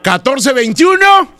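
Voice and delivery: slow dictation. Acted. Prank caller dictates his phone number, slow dictation.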